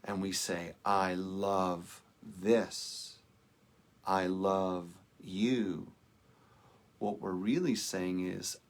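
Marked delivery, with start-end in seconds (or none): 0.8-5.9 slow and a little lower, the stress spread evenly; deeper, tender love. Shown as a demonstration. Minister contrasting love from the universal self, said tenderly. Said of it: "When we go deeper".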